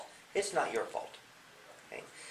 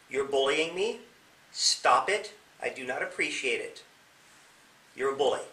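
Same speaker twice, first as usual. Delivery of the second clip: confident. Shown as a demonstration. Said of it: "say it in a way that's confident".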